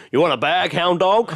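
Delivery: a light crooner voice; lightly done impression of a famous singer; singer impression. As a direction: croon it like a famous rock-and-roll singer. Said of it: "had a famous singer's voice".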